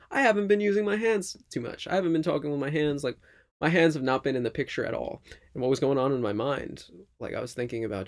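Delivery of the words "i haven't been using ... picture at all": high, loud surprised realisation; self-quote. Retold or imitated. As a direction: blurt it out as a sudden realisation. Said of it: "I'm like".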